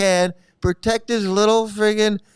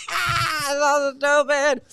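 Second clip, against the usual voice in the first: laughing whisper; 7 semitones higher, slower than usual. Real, not acted. Gleeful reaction to guru meltdown.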